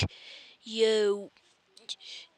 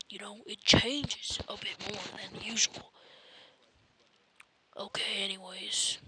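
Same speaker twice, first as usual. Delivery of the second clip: soft breathy whisper; whispered aside; 6 dB quieter than usual. Real, not acted. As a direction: murmur it privately.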